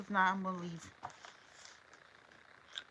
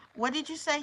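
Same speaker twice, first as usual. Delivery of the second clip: wrathful; 7 semitones higher than usual. Acted. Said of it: "She sounded out in wrath".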